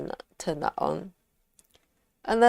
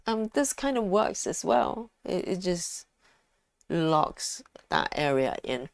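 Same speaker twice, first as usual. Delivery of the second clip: talking through a mouthful of chocolate; chewing chocolate while speaking; mouth full; 4 dB quieter than usual. Real, not acted. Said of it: "I've got chocolate in my mouth".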